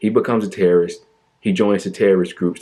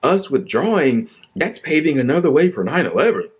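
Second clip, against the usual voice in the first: higher, whiny mock of Lindsey Graham; sarcastic higher imitation of a fretting politician; 5 semitones higher than usual. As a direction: parody the senator's panic. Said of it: "he comes in with his propaganda and says".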